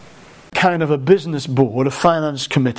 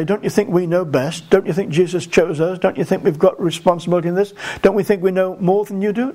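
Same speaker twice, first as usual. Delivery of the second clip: high horse; 4 semitones higher than usual. Retold or imitated. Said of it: "get up on their high horse and say".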